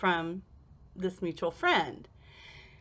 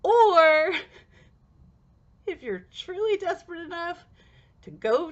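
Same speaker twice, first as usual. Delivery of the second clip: emphatic; 9 semitones higher, 6 dB louder than usual. Real, not acted. Punchline of the moral.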